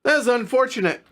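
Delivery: hiccups breaking the words; speaking through hiccups. Real, not acted. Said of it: "I got the hiccups now".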